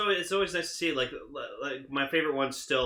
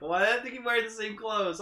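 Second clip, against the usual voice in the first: high-pitched querying voice; put-on baffled question; mock puzzlement; 9 semitones higher than usual. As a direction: ask it high, in pretend bafflement. Voicing a puzzled viewer.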